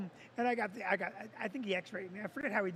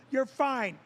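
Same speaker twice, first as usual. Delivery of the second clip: mocking Vicky; 3 dB louder than usual. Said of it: "Vicky's like".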